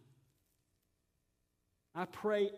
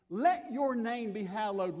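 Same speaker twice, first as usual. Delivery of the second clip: slow, stressing "Let" in "Let your name be hallowed"; slow petition; 5 dB louder than usual. Shown as a demonstration. Preacher voicing the prayer as request, slow stressed "Let". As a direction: plead it slowly, "Let" first and firm. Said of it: "this is a prayer".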